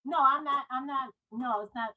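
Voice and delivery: caller's voice echoing, far from the phone; echoing bathroom. Real, not acted. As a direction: sounds like she's calling from a bathroom. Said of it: "you sound like you're in a bathroom".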